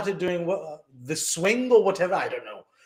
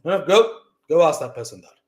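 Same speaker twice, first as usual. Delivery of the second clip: insistent parent; 7 dB louder than usual. Retold or imitated. Parents pushing a reluctant child.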